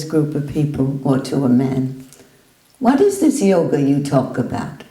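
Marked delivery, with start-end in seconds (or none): 2.8-4.8 blunt challenge. Retold or imitated. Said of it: "that's how he spoke there".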